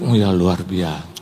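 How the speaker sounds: low, slow feigned admiration; covering breathlessness. Retold or imitated. Winded pastor answers his guide to buy time, low and slow. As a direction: stall for breath with a drawn-out reply. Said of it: "saya lagi atur nafas".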